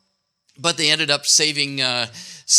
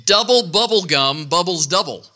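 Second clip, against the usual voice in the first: tongue twister demo; 2 semitones higher than usual. Shown as a demonstration. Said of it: "Here's a good one".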